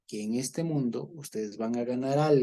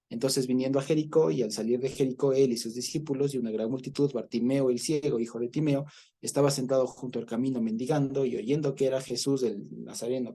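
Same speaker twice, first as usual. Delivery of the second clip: raised, measured reading of the passage; scripture reading. Acted. Preacher reads Bartimaeus story to his study group, raised voice.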